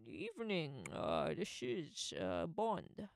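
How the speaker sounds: slow Scottish Bond drawl in the style of Connery; lightly imitating a Scottish Connery, slowing down on the name; Sean Connery impression. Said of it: "that's Sean Connery".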